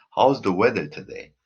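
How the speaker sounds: "today" drops at the end; falling intonation. Shown as a demonstration. Teacher shows W H intonation, going down on "today". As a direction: let the question sink on "today". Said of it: "even down".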